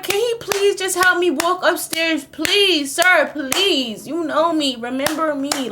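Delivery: slow, slurred begging; drunk pleading. Retold or imitated. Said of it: "I'm like".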